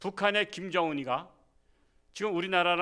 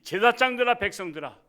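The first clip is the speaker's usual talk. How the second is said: louder, stern divine rebuke; rebuking God; 2 semitones higher, 6 dB louder than usual. Retold or imitated. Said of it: "하나님께서 말씀하시잖아".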